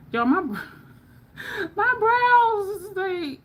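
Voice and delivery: high, slow laughing whine. Real, not acted. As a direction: laugh through the words at yourself. Laughing at own messy brows.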